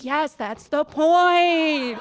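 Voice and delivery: slow, laughing comeback; laughing retort. Retold or imitated. Telling non-cat people fear is the point, slow and laughing. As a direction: laugh through the punchline.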